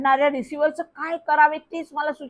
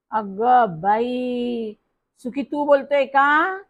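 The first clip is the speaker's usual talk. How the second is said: a bit pleased; much slower than usual. Acted. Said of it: "जरा आनंदाने म्हणाली".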